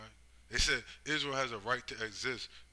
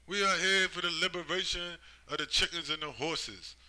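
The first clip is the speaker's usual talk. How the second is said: mock noble declaration; 7 semitones higher, 8 dB louder than usual. Mock quote of invaders' claim.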